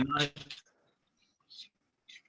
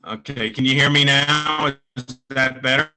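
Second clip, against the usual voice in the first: choppy crackling phone line; audio breaking up; 6 dB louder, faster than usual. Real, not acted. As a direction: voice cutting in and out. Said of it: "you're very broken up".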